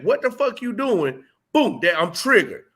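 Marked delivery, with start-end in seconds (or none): 0.0-1.2 higher mock confrontation; hostile challenge. Repeating the triggering words, mock hostile. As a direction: repeat it with an edge. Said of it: "just that".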